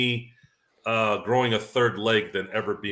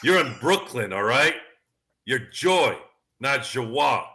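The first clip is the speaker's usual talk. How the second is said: a hint of Spike Lee correcting her name; Spike Lee impression; 3 semitones higher, slower than usual. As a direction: Spike Lee lecturing her about Brooklyn names. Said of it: "Tommy Davidson plays Spike Lee".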